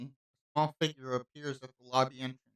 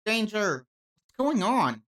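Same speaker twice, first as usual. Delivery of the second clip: alarmed; 4 semitones higher, 3 dB louder than usual. Acted. Blade suddenly resonates, alarm.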